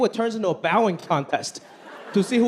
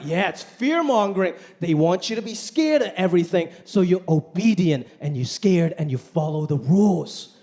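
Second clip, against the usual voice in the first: lightly voiced conspiracy guy; 3 semitones lower than usual. Comic voicing anti-mask skeptics, lightly paranoid. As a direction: play it like a mild paranoid skeptic. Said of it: "They're like".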